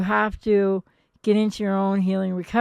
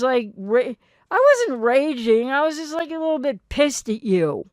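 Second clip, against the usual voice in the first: rising into a louder, indignant denial; mock defensive denial; 4 semitones higher, 5 dB louder than usual. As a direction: play the partner who denies and flips the blame. Borderline partner denying, raging.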